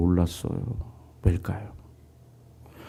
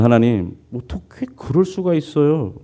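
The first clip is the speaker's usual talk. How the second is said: high, louder protest at God; crying out; 7 semitones higher, 4 dB louder than usual. Retold or imitated. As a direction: shout out the bitter complaint, voice high and loud. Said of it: "그러자 그가 이렇게 소리칩니다". (높고 크게 하나님께 항의하며 외침)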